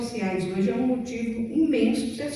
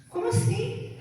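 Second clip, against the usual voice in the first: incredulous friend; 11 semitones higher than usual. Retold or imitated. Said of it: "Ou então, assim".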